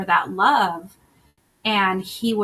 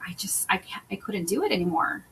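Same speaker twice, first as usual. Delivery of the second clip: whispered, softer, giving up; defeated whisper; 7 dB quieter, faster than usual. Retold or imitated. Coach recalls constant fights with partner, exhausted whisper. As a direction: breathe it out as if all fight is gone. Reliving the end of a relationship.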